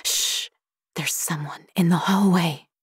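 hushed, voiceless warning; shush, then whisper the warning. A narrator's reading. Warning sister about a figure in the hallway, whispered. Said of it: "I whispered back".

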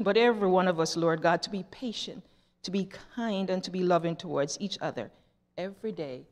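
measured, earnest public prayer; leading a prayer. Real, not acted. Leads children in closing prayer.

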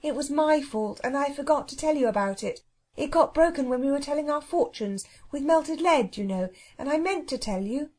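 mildly contrite explanation; gentle apology. A narrator's reading. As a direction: gently own up in a girlish pitch. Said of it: "said Anthea gently".

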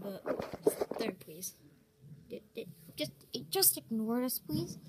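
soft, unvoiced begging whisper; whispered plea. Real, not acted. Begging viewers in a whisper not to dislike.

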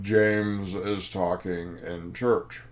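very slow, word-by-word accusation; grave nun's complaint. Retold or imitated. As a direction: spell out the offence slowly, imitating a stern nun. Repeats the nun's horrendous accusation.

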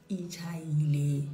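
Ichayile stretched out slowly. Shown as a demonstration. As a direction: drag out Ichayile. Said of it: "repeated slowly".

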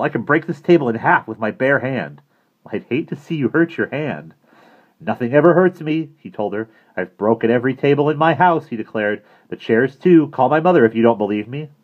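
put-on loud, high, bragging kid; a boy showing off to impress; Bradley brags to the counselor, loud and high; boasting boy.

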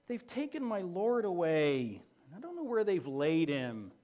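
a mildly whiny, defeated Mary. Retold or imitated. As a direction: whine it out like all hope is lost. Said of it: "that kind of whiny voice".

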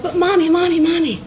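high, begging dog voice; pleading dog. Acted. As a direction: plead over and over like an eager pet. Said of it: "And the dog's like".

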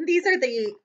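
usual speaking voice

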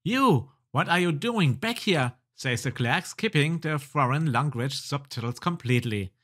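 animated storyteller reading; game story narration. Acted. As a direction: narrate the adventure game text with lively emphasis. Reads game dialogue aloud.

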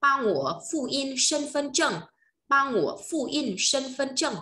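Chinese phrase said slow and clear for repeating; teacher models the sentence; slow model pronunciation. Shown as a demonstration. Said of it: "thì sẽ nói là gì".

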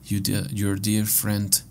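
measured, deliberate reading voice; letter read aloud. Acted. Player reads a found letter to Margaret aloud, measured reading.

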